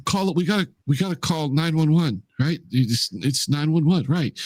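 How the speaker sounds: high, stumbling, unsure urgency; flustered panic. Acted. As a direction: fumble for what to do in a panic. Acted panic, calling emergency number.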